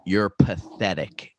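slow, cutting put-down; cold contempt. Retold or imitated. Drunk boyfriend cutting down his girlfriend, slow contempt. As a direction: say it slowly to wound her. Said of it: "said it with such vulgar".

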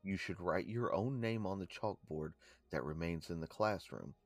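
measured read-out of a legend; story read-aloud. Real, not acted. Co-host reading a haunting legend to listeners, read-aloud delivery. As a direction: read it out like a ghost tour entry.

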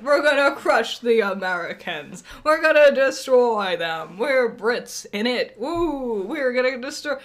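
loud, hammed-up English accent. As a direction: boast like a hyped-up English fan, accent put on. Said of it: "English accent".

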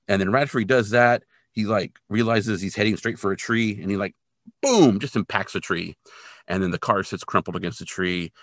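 normal talking voice

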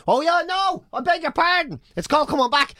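imitated request. Acted reply to the travel agent.

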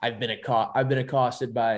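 put-on light Boston accent, half-done; a hint of Boston in the vowels. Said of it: "threw in a Boston accent there".

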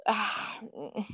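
soft wordless groan of exasperation; exasperated sigh. Real, not acted. Fan describing rival Louisville fans, exasperated sigh. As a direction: sigh it out, lost for words.

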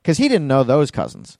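ordinary delivery

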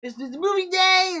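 high, slow, mock-excited teacher voice; sing-song mock cheer for movie day; cheery teacher announcement. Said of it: "be like".

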